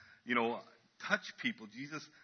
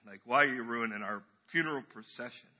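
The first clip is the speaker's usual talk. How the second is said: low, dismissive mourner; unimpressed grumbling; 4 semitones lower than usual. Acted. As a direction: play a put-out mourner, dropping the pitch. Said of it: "the other group is going".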